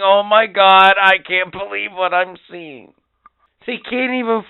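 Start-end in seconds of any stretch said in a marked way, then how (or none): 0.0-2.9 hammed-up amazed fan, higher and louder; mock surprise. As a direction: overplay disbelief. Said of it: "doing the same thing".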